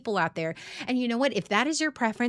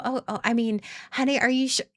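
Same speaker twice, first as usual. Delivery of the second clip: high, sweet, hesitant pushover voice; a sugary, unsure hint of a people-pleaser; mock deferential girlfriend; 4 semitones higher, 3 dB louder than usual. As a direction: play the yielding partner, sugary and unsure. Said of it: "I'm going".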